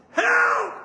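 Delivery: high, loud re-enacted yell; scream for help. Patient in pain calling to sleeping son, re-enacted scream. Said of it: "I'm screaming out".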